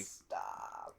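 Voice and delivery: breathy whispered stop. Acted. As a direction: whisper it, exasperated. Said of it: "repeats stop whispered".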